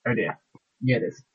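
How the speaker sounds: faint voice from an unplugged mic; very far from the microphone; barely audible. Real, not acted. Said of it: "I can barely hear you".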